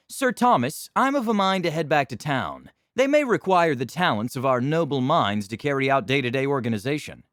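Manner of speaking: haughty knight backing down; pompous noble. Acted. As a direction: save face grandly. Noble excuses retreat.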